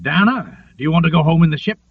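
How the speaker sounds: a quick, curt question, rushed out; abrupt question. Acted. Captain abruptly quizzes Dana, quick and curt. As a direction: fire it off fast, no warm-up. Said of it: "asked abruptly".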